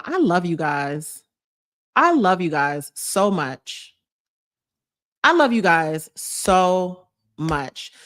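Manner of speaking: slow, drawn-out thanks; mean every word; heartfelt. Real, not acted. Thanking viewers emotionally.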